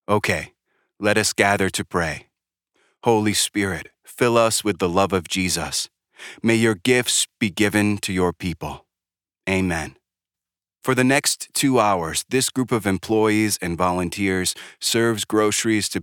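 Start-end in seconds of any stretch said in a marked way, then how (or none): 0.1-10.0 put-on light Jamaican accent leading a prayer. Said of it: "in a Jamaican accent".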